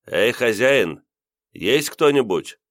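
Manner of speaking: high, drawn-out call. Acted. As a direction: call into the flat for whoever is home. Stranger calling into flat from stairwell.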